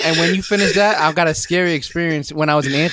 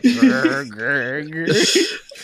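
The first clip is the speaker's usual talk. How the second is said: straining growls; much slower than usual. Retold or imitated. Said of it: "You sound like".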